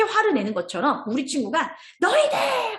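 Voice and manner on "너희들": high-pitched mock yell; acted anger. Child turning on teasing friends, acted angry outburst. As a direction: cry out like a child blowing up at friends. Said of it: "하고 이제 화를 내는 거예요".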